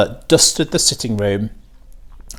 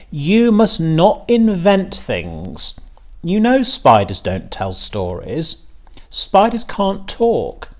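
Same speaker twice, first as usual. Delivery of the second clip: slow, stern scolding, pitched higher; a mother firmly correcting her daughter; 7 semitones higher, slower than usual. A narrator's reading. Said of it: "said her mother sternly".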